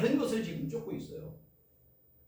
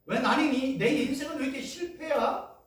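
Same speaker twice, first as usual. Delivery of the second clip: despairing complaint; 6 semitones higher than usual. Retold or imitated. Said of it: "근데 거기에다 예수님의".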